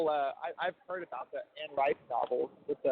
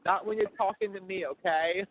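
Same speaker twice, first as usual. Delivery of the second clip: higher Cajun motherly scolding; Cajun mom impersonation; 5 semitones higher than usual. Retold or imitated. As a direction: imitate a Cajun mom laying down the rule. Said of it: "that Cajun accent of your mom".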